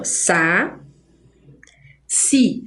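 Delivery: "sa, si" slowly with a long pause between; syllable by syllable. Shown as a demonstration. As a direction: draw out "sa", pause, then give "si". Teacher splits saci into syllables.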